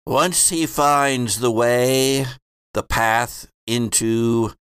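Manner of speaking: slow, solemn prophetic chant; rhyming oracle. Acted. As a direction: intone the prophecy like a seer. Prophet's rhyme restarts.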